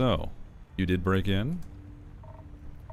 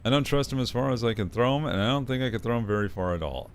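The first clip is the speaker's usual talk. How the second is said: fast, higher character voice; 5 semitones higher, 4 dB louder, faster than usual. Acted. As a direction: rattle it off in his voice. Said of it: "it's hard to get his voice".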